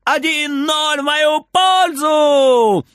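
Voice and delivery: high, loud, slow gloating shout; triumphant yell. Acted. Frieder announcing the score to himself, loud and high. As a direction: crow it out, savouring every word. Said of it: "орёт Фридер".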